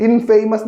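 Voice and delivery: ഇൻഫേമസ് with a long "fay", like "famous"; wrong pronunciation. Shown as a demonstration. Teacher warns students off this reading, ഇൻഫേമസ് with "fay". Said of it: "ഇൻഫേമസ് എന്നല്ല കേട്ടോ വായിക്കുക".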